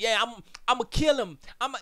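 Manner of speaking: eager cereal eater. Retold or imitated. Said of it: "you be like".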